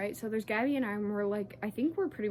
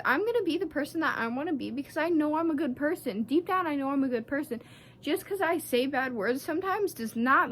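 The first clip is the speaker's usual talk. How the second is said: indignant rant; 4 semitones higher, 3 dB louder than usual. Real, not acted. Venting at the manager Jake.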